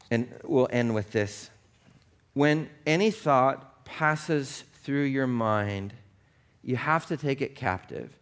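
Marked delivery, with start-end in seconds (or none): 2.3-5.9 very slow, deliberate phrasing; slow down on every word. Shown as a demonstration. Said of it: "you literally have to slow down".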